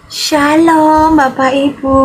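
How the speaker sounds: drawn-out, gentle greeting; lemah lembut. Shown as a demonstration. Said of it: "ada yang lembut-lembut". (sapaan lemah lembut, mendayu-dayu)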